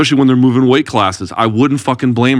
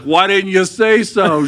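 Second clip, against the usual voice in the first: high, slow, mock-surprised bartender; relieved bartender; 9 semitones higher, much slower than usual. Bartender to husband, slow mock relief. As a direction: draw it out like a bartender who finally gets it. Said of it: "and he'd be like".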